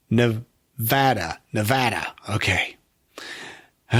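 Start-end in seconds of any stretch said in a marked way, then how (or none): 0.1-2.1 Nevada slowly with the a of cat; slow careful practice. Shown as a demonstration. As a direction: drill the flat a in Nevada.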